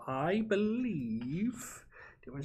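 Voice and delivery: whispering. Real, not acted. Muttering while deciding.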